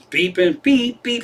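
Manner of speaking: high-pitched alarm beeps; fire-alarm imitation. Owner mimics Sparky greeting the daughter, high alarm beeps. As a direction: imitate a pet going off like an alarm.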